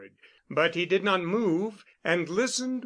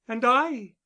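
clear; 8 semitones higher, 4 dB louder than usual. A narrator's reading. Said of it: "she said clearly".

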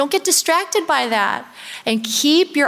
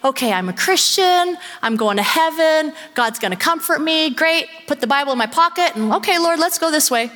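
breezy complacent; 6 semitones higher than usual. Retold or imitated. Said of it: "not to just say".

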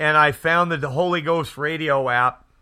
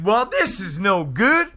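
higher-pitched imitation of an older California accent; 5 semitones higher than usual. Imitating a preacher telling his fight story, older California accent. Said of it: "That's how he talks. ... older California accent".

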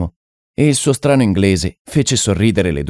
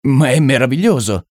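higher-pitched cry of wonder; amazed exclamation; 6 semitones higher than usual. A narrator's reading. Painter amazed at the medium's insight, exclaiming in wonder. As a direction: exclaim in delighted astonishment. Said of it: "gridò Deacon".

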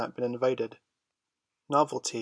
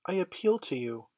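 cried out; 6 semitones higher than usual. A narrator's reading. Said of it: "she cried".

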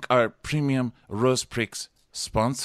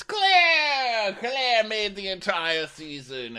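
very high crying-out name; dramatic hype; 12 semitones higher, much slower than usual. Acted. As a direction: proclaim it like a melodramatic host. Dramatic host-style hype.

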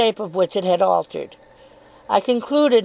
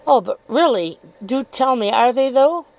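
lightly raised, coyly probing voice; insinuating Miss Dartle; 4 semitones higher than usual. Acted. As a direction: feign innocence while needling.

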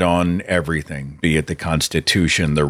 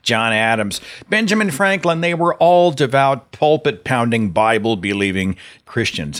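mocking; 4 semitones higher than usual. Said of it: "they just lap it up and say".

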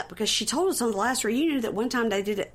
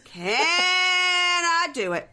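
going off; 7 semitones higher than usual. Retold or imitated. Reality-show wife going off about her husband in the car, mock ranting. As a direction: work up into an over-the-top tirade. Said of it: "she's just going off".

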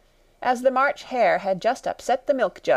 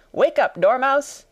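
high, loud wake-up call; crying out; 7 semitones higher, 5 dB louder than usual. A narrator's reading. Hatter and March Hare waking the Dormouse, crying out. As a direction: call out to rouse a sleeper. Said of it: "they both cried".

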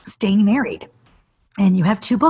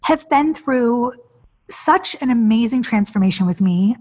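welling up; 5 semitones higher than usual. Real, not acted. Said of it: "I'm gonna cry".

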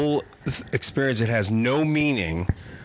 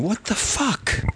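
bewildered; 9 semitones higher, slower than usual. Retold or imitated. Retelling confusion while hallucinating.

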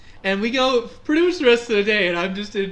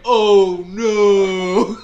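laughing oh no; 8 dB louder than usual. Retold or imitated. Teller laughing as he recalls flying over his friend. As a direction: laugh it out while reliving the fall. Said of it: "I'm like".

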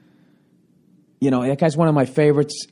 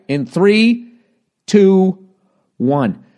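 raised, high countdown; loud, pitched-up count; countdown call; 5 semitones higher, 4 dB louder, much slower than usual. Real, not acted. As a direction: call it out as a warning. Counting down to a spoiler.

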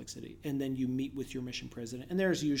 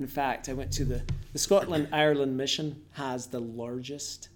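loud, drawn-out Scottish accent; storytelling in a broad Scottish accent; 5 dB louder than usual. Shown as a demonstration. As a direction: tell it in a put-on Scottish accent. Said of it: "I give them the Scottish accent".

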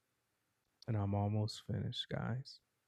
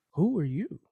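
sharp, raised question from a startled judge; 8 semitones higher, 5 dB louder than usual. Acted. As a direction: demand it in surprise, pitch jumping up.

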